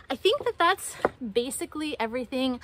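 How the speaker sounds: slightly winded talking; breathing hard between words. Real, not acted. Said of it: "I'm a little bit out of breath".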